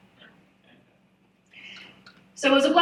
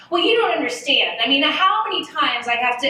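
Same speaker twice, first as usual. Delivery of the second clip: rising, louder whiny protest; whiny defensive; 3 semitones higher, 5 dB louder than usual. Retold or imitated. To the new boss, pushing back in a whiny defensive tone. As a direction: whine your case back at the boss. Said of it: "and I just kept going".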